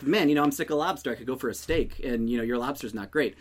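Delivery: quick, offhand throwaway delivery; nonchalant. Acted. Just small talk about dinner, said nonchalantly. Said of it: "how nonchalant you kinda gave that".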